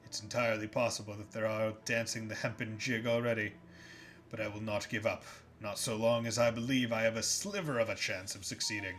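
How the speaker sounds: low, weary captain's journal voice; somber log reading. Acted. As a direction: read it like a dying sailor's diary. Reads Reed's log aloud.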